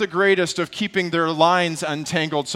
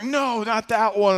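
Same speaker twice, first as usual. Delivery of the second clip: lightly voiced little boy, high and drawn out; slow, higher mock-kid voice; voicing young son; 6 semitones higher than usual. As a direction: imitate a child slowly correcting dad. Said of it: "And he's like".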